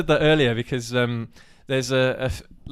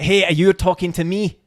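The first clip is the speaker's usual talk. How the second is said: Irish attempt coming out Scottish, higher and louder; botched Irish accent; 4 semitones higher, 6 dB louder than usual. Player retrying the film quote, Irish accent gone Scottish. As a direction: try Irish, slide into Scottish, lift the end. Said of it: "No, that sounds Scottish again".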